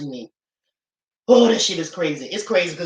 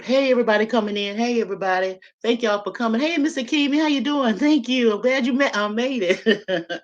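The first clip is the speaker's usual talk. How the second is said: forced cheerful host; 4 semitones higher than usual. Retold or imitated. Dazed after the burial, imitating herself greeting arriving guests, high and forced. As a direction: play the dazed hostess welcoming guests. Greeting mourners while baffled.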